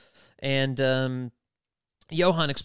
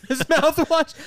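slow, high mock German accent; 14 semitones higher, 5 dB louder, slower than usual.

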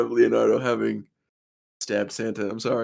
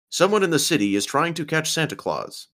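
announcing; 7 semitones higher than usual. Acted. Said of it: "A T V reporter announced".

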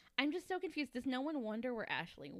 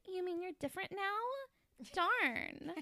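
high breathy flirt, mock starlet; breathy over-the-top flirting, higher; flirty breathy voice; 9 semitones higher, slower than usual. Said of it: "That is exactly how she talks".

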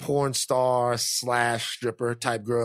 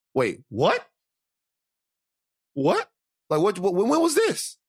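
shocked what; 7 semitones higher than usual. Retold or imitated. Cousin shocked at the news.

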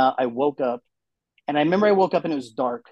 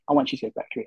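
high whiny craving; 11 semitones higher, 3 dB quieter, much faster than usual. Retold or imitated. Girlfriend craving food.

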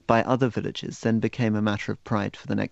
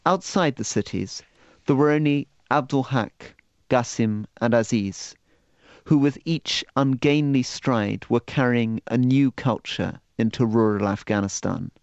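reading aloud. Acted. Reads passage from his book.

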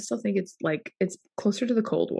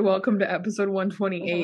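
monotone. Retold or imitated. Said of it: "sounded very, like, monotone".

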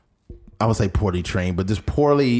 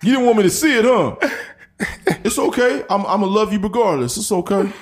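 high, laughing mock consoling voice; mock tender guest; 11 semitones higher than usual. Partner consoling the guest, high mock voice. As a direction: ham up the sweet forgiving partner. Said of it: "acted talk show forgiving partner".

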